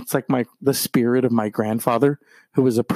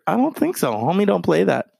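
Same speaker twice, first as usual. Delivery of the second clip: sassy; 6 semitones higher than usual. Real, not acted. Sassy comeback.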